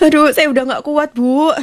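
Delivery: crying harder. Acted. Weeping wife to her neighbor, crying harder. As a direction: wail as if you can't cope. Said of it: "kok malah tambah gembor".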